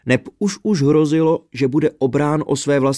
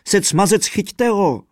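higher, louder holler; hollering fiddler; 8 semitones higher, 3 dB louder than usual. A narrator's reading. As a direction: yell after the thief to catch him. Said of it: "hulákal houslista".

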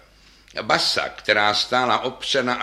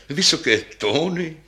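higher, brighter lady bass, eager; 5 semitones higher than usual. Acted. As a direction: answer lightly, proud of the high notes. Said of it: "řekla basa s vyšším hlasem". (vyšší hlas mladší basy)

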